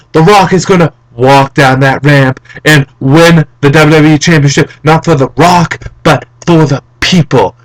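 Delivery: lightly voiced wrestler promo; measured, emphatic promo phrasing; The Rock. Fan quoting The Rock's promise, light wrestler impression. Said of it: "And The Rock would say".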